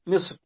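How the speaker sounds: "مصر" with no final -an, as "Misr"; without tanween. Shown as a demonstration. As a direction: say "مصر" bare, without the nunation. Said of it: "بغير تنوين".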